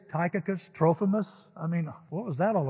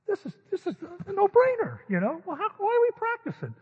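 mock overconfident; 14 semitones higher, 4 dB louder than usual. Cocky retold self, too easy.

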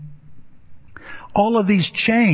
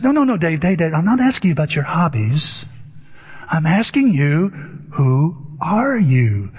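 insistent therapist. Retold or imitated. Therapist rejects Dave's hobbies answer, lightly imitated insistence. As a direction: cut him off, then drag out the question. Retold therapist pressing Dave again.

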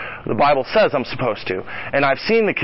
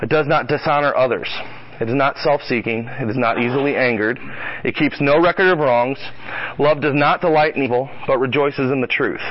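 measured, solemn Bible reading; steady recitation with weight on each not; scripture reading. Acted. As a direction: read each line as holy text. Reads scripture on love aloud.

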